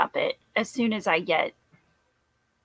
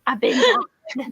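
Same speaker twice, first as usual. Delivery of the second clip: mock crying; 3 semitones higher, slower than usual. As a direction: fake sob on tired. Repeats in a sob voice.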